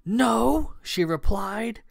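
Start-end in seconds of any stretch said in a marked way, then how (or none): 0.1-0.8 sharply raised, louder denial; flat-out contradict him, pitched high; growing anger. A narrator's reading. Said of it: "Kat was becoming angry".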